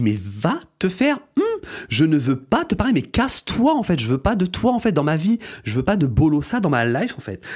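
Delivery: retold angry brush-off. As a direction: spell it out slowly in fed-up anger. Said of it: "elle m'a fait péter un câble".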